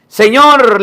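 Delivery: loud, high cry to the Lord; a mother crying out for help, loud and high; desperate shout. Acted. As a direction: call out to him in desperation. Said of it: "le gritaba".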